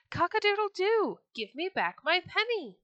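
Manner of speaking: high, loud crow and demand. Acted. Rooster at the Sultan's window crowing, high and loud. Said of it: "once again he cried".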